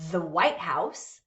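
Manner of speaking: "the White House" with WHITE as the peak; compound noun stress. Shown as a demonstration. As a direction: stress "White" and run "House" on as one name. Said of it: "It functions as one thing".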